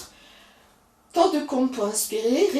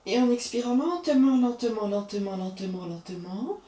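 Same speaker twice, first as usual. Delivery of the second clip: fading lentement. Acted. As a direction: let each lentement die away with the exhale. Slowing the exhale with repeated words.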